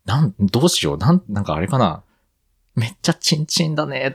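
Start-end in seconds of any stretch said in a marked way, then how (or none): 2.8-4.1 Nagoya dialect. Pretend. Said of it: "とか言わなきゃいけないのかな".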